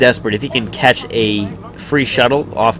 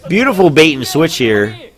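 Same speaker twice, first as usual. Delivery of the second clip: excited; 6 semitones higher, 5 dB louder, slower than usual. Real, not acted. Big play, caster erupts.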